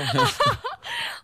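shrieking high laugh; high giggle. Real, not acted. Big laugh. (크게 터지는 웃음)

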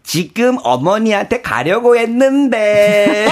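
slow, drawn-out cutesy pleading; put-on cute daughter-in-law whine; playful aegyo. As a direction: stretch it out coyly for mother-in-law. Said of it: "하면서 이제 애교를 부리신다".

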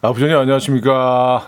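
lightly imitating a solemn employee; put-on deep greeting. Co-host guessing how the listener greeted the boss, lightly deepened. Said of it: "왜 이렇게 목소리를 깔어".

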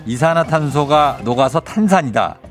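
slow suspenseful reveal. Acted. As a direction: drag it out before the answer. Slow suspense before answer reveal.

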